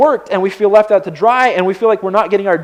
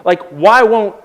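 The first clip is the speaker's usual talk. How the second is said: mad at God; 2 semitones higher than usual. Acted. Jobless believer demanding help from God, exasperated. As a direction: pile up the grievances, pleading and indignant. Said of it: "I'm mad at, at God".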